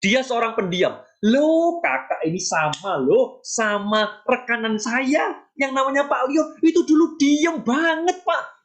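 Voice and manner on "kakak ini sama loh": ordinary delivery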